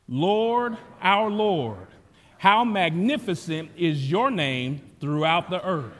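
slow, solemn declared psalm reading; scripture reading. Acted. Pastor leading the standing congregation in reading Psalm 8, slow solemn declaration. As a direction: proclaim the psalm slowly, together.

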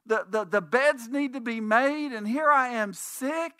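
a sick wife fussing, pitched well up; apologetic sick wife. Retold or imitated. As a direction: whine the apology from the sickbed. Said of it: "And she said".

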